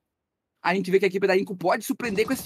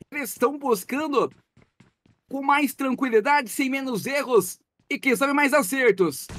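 live play-by-play. Acted. Casts the match live.

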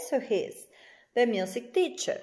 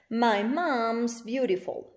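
slow model sentence; slower than usual. Shown as a demonstration. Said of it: "reading example sentence".

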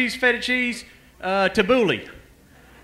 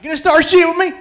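mock challenge; 9 semitones higher, 9 dB louder than usual. Real, not acted. Challenging heckler playfully.

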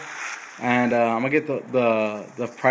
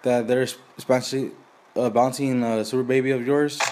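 a hint of a slow country neighbour asking a favour; hillbilly Cletus. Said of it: "Cletus, you guys saying something".

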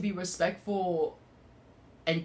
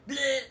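high-pitched "bleh" noise; imitated bleh noise; 8 semitones higher than usual. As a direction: blurt a mock creature noise, pitched up. Imitates scary thought popping up.

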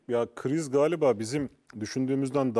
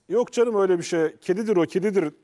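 mocking dismissal; 2 semitones higher, 5 dB louder than usual. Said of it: "deme noktasına geliyoruz".

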